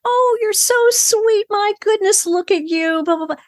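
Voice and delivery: put-on gushing sing-song baby voice, way up high; high-pitched baby talk. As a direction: coo at a baby in a squeaky falsetto. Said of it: "in that high-pitched".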